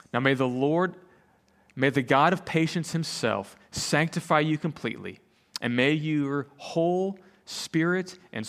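measured, solemn Bible reading; scripture reading. Acted. Pastor reading an epistle to the congregation, measured scripture reading. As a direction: read it out deliberately, with pauses between commands.

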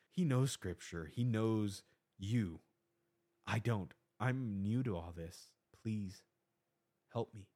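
a nervous man crying out for guidance; anxious plea to God. Retold or imitated. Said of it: "I'm praying to God, to myself".

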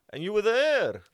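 bursts out loud and high through a laugh; laughing jab at a friend; laughing tease. Real, not acted. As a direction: crack up while teasing him. Teasing friend about Vietnam.

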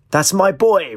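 high, mildly roared cheer; roaring. A narrator's reading. Father delighted with Bradley, roaring his approval. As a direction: let out a proud, half-roared cheer. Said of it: "roared Mister Peruzzi".

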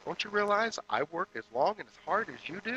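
mock furious wife, pitch soaring; wife losing it. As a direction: let the fed-up wife explode. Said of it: "the wife at this point kinda loses it".

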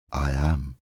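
low, gentle spirit voice; a hushed, gentle reply; soft gentle ghost. Acted. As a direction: answer kindly and calmly. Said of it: "in a soft and gentle voice".

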